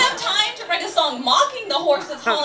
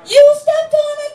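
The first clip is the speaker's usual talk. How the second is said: high, drawn-out accusing scream; screaming in agony; 13 semitones higher, 7 dB louder, slower than usual. Acted. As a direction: scream as if in excruciating pain. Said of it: "look up at them and scream".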